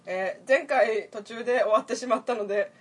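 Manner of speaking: polite apologetic service tone; formal staff apology, over-polite; customer service voice. Pretend. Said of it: "お待ちのお客様". (接客口調で丁寧に)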